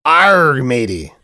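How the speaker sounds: playful pirate call. Pretend. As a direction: growl it like a pirate. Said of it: "I still reserve the right to talk like a pirate".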